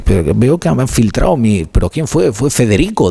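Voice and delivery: retold bafflement. Host retelling a hilarious radio mix-up, mock bafflement. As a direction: lightly act out a puzzled radio exchange. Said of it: "bastante hilarante, ¿no? En el que decía".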